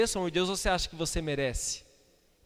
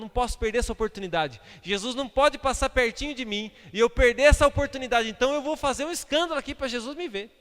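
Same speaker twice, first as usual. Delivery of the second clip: raised, high-pitched urgent plea; desperate crying out; 6 semitones higher, 5 dB louder than usual. Acted. Blind men clamoring for Jesus to notice them, desperate cry. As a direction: cry out as if the chance is slipping away. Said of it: "Gritaram ainda mais, espernearam, falaram".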